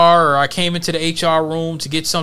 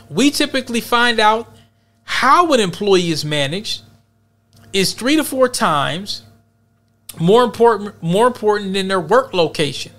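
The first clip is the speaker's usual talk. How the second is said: reading a quote aloud; 2 semitones higher than usual. Shown as a demonstration.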